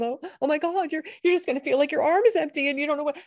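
high, fast, gushing mock empathy; overdramatic affect. Shown as a demonstration. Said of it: "I did not have the affect of".

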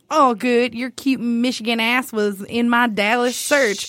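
slow, lightly imitated Texas accent; mock Dallas accent, unhurried; put-on Texas accent. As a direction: read it with a hint of Texas drawl. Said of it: "I should say this with an accent".

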